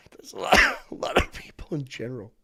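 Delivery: laughing through the words. Real, not acted. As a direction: crack up mid-sentence.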